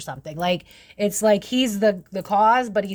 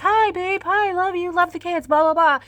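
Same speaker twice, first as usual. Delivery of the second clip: much higher, sing-song sugary voice; fake sweet greeting; 11 semitones higher, 3 dB louder than usual. Spouse faking affection while both scheme, high and sugary. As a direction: gush like a spouse who's only pretending. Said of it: "we're both smiling in each other's faces".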